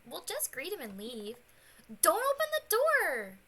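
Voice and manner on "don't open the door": high shouted warning; panicked scream. Acted.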